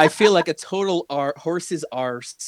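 hammed-up fake British accent; exaggerated British vowels, mock-posh; Jennifer Coolidge. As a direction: put on a comic British voice, starting high and settling. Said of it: "She came back with a British accent".

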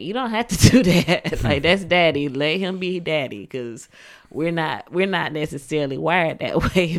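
loud, laughing reassurance. Retold or imitated. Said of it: "I'd be like".

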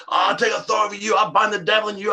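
imitating a couple roaring at each other; mock roaring prayer. Preacher mocks couples roaring in prayer, hammed-up shout.

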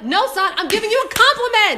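high, loud, laughing correction; laughing exasperated retort. Retold or imitated. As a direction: set them straight while laughing. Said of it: "I'm like".

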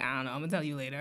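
low, soft phone murmur; discreet low aside. Retold or imitated. Putting off friend on the phone, discreet low aside. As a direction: drop pitch and volume for a private reply.

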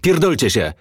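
narrated angry outburst; yelled defiance. A narrator's reading. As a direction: spit the curse out in a contained yell. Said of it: "wrzasnął Baseball".

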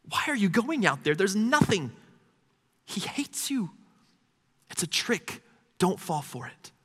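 high, softened, aching plea; hushed pleading. Retold or imitated. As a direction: drop the volume and beg, pitch still high. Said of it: "You hear God pleading".

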